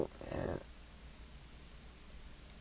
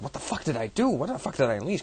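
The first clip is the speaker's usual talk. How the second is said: mock panic; 6 semitones higher, faster than usual. Ra panicking at Sekhmet's rampage.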